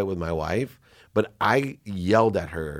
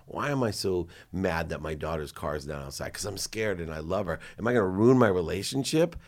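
softer, inward questioning; quiet self-questioning; 5 dB quieter than usual. Shown as a demonstration. Guest showing the questions to ask yourself, softly. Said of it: "Ask yourself".

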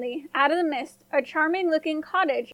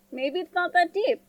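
1 hopeful thought; 4 semitones higher than usual. A narrator's reading. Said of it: "she thought".

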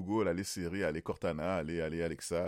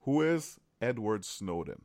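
slow, careful question to a device; voice-assistant query; 2 semitones higher, slower than usual. Real, not acted. Host asks his phone's assistant a question, slowly and carefully. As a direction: space the words out for the assistant.

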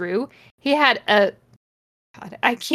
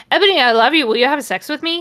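hammed-up lovestruck villain; 4 semitones higher, 4 dB louder, faster than usual. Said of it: "he said".

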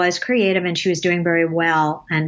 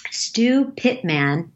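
slow and deliberate; 4 semitones higher, much slower than usual. Shown as a demonstration. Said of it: "if you said his name first".

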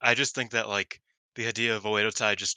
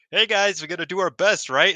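high, loud chirpy team cheer; imitating a peppy teammate filming her partners; mock cheery pep talk; 8 semitones higher, 7 dB louder than usual. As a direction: gush like an eager teammate. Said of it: "being like".

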